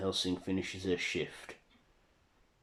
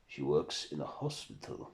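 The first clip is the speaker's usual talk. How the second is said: lower, softly puzzled question with a rise; questioning Dracula; 4 semitones lower, 4 dB quieter than usual. Acted. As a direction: ask it low, lifting at the end. Dracula queries what was narrated.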